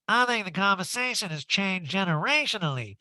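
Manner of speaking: a hint of mock pronouncement; Erika. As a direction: raise the pitch for an affected quote. Acting out Erika in reunion.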